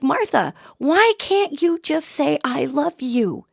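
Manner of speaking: mild retold sobbing. Sobbing man pleads with fake dead Martha, mild retold sobbing. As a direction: imitate a choked-up man pleading. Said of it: "And he's sobbing".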